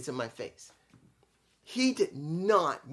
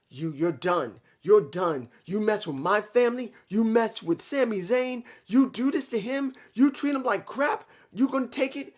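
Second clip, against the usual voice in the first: higher and louder, pressing him harder each line; mock goading challenge; 4 semitones higher, 4 dB louder than usual. Roman daring Sami to hurt his foe, rising mock challenge. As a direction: retell it like a bully daring him.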